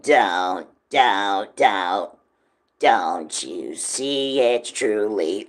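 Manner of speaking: low, slow, growling monster voice; creepy monster voice. Shown as a demonstration. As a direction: drop it deep and creepy. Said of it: "I wanted to go a little deeper".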